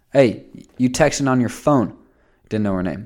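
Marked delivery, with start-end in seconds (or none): 0.2-2.0 loud yelling in a coach voice. Speaker retelling a coach yelling at a girl on her phone, imitating a coach yelling. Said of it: "and he's yelling at her".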